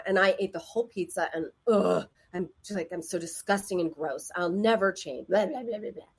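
imitated harsh self-disgust; super harsh. Group member berating themselves on their turn, super harsh. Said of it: "like, super harsh".

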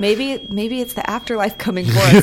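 giggling through a spooky joke; laughing. Real, not acted. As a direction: laugh while you say it. Joking the afterlife comes for them.

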